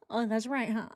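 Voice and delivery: hammed-up crying afterthought; mock tearful realization. Mother suddenly remembers the victims, exaggerated fake crying. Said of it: "And she's like".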